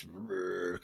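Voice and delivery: soft, drawn-out trilled noise for flowing tears; imitated waterworks. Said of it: "she just tears, waterworks".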